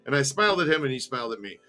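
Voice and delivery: storyteller recounting events step by step; story narration. A narrator's reading. Host reads a book to listeners, story narration. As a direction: read the memoir aloud in measured phrases.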